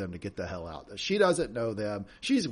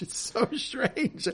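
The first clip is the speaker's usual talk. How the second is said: drawn out; 12 semitones higher, much slower than usual. Real, not acted. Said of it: "drawn-out amazement".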